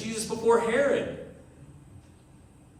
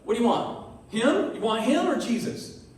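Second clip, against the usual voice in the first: incredulous Pilate; 5 semitones higher than usual. Retold or imitated. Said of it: "Pilate's like".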